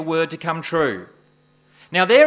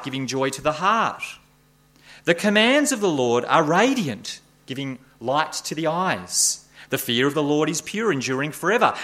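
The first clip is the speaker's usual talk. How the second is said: bright, rising reading of praise; scripture reading; 2 semitones higher than usual. Acted. Preacher reading Psalm 19 to the congregation, warmly exalted. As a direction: read it as something precious.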